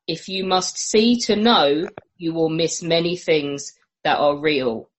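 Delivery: slow, solemn philosophical reading; solemn quote reading. Acted. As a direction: read it slowly like ancient wisdom.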